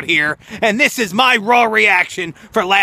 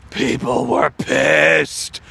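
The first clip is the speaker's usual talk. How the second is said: hushed; 6 semitones lower, much slower than usual. Real, not acted. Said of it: "People were so mad".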